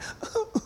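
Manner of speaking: soft, high little whimpers; light mock sobs under the breath; small restrained crying. Shown as a demonstration. Preacher showing how Mary is not weeping, small mock sobs. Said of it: "She's not going".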